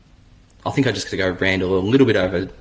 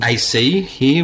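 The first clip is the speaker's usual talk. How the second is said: words stretched by a yawn; 5 semitones higher, 5 dB louder, slower than usual. Real, not acted. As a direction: talk through a yawn. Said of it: "Bordy, you're yawning so much".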